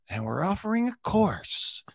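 high-pitched mock sales announcement; Dean. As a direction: imitate a pitchman unveiling an offer. Mimics Dean's sales pitch.

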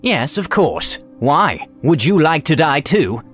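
scornful, drawn-out taunt; sneering wizard. A narrator's reading. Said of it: "he sneered".

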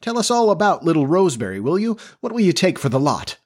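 high, mirthful teasing; gleeful ribbing, voice climbing; hilariously mocking. A narrator's reading. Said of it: "said the editor hilariously".

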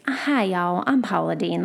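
lightly imitated Southern accent; Paula Deen. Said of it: "just this".

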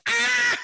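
very high-pitched mimicked scream; Chris Tucker. Co-host mocking guest's scream as a movie comic's, high squeal. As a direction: squeal an imitation "aah", way up high. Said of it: "That sound like Chris. He went".

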